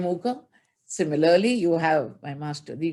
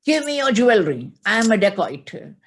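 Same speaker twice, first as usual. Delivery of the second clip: threatening robber; 3 semitones higher, 6 dB louder than usual. Acted. Thief threatens the children.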